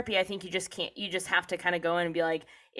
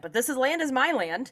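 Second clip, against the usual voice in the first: mock British colonizer; 6 semitones higher than usual. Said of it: "I have a British accent".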